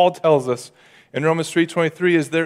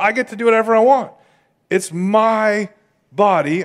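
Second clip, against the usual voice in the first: defiant; 5 semitones higher than usual. Acted. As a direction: plant your feet and refuse to be told. Irreligious person defiant.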